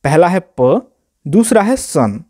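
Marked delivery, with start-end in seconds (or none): 0.6-0.8 प said as a separate first syllable; split syllable. Shown as a demonstration. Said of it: "दो भाग में बांट के बोलते हैं". 1.8-2.2 सन said as a separate second syllable; split syllable. Shown as a demonstration. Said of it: "दो भाग में बांट के बोलते हैं".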